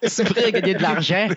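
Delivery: imitating Belgian accent. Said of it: "tu fais l'accent belge".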